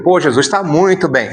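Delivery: easy, warm answer to a friend; relaxed and open; open, friendly reply. Shown as a demonstration. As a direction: say it like you mean it. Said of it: "a linguagem mostrou pra Jesus outra coisa".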